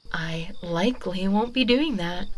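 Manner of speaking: whispered mock confession; teasing whisper. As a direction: let it slip in a whisper. Witch whispers a teasing admission.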